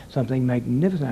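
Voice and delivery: "Something magnificent." ending on a tiny held pause; tiny pause after. Shown as a demonstration. Director showing the announcer the tiny pause after "magnificent". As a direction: let "magnificent" land, then a tiny beat. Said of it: "I put a little pause, tiny pause".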